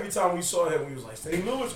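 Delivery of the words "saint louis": sneaky, softer imitated taunt; said quietly. Students walking past principal, quietly imitated taunt. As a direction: slip the taunt out under the radar. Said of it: "you gotta say it quietly".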